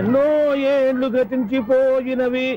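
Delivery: very slow, drawn-out words; slow dramatic line. Acted. Landlord scolding the tenant, very slow and dramatic. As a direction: stretch every word out.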